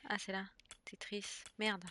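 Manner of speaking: normal talking voice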